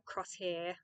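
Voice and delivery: slow Kiwi-accented name; New Zealand accent. Shown as a demonstration. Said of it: "I have to say it in a New Zealand accent".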